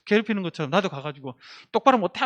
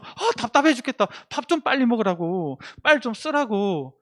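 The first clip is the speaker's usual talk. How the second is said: impatient hurrying; 3 semitones higher than usual. Retold or imitated. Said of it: "막 재촉해요".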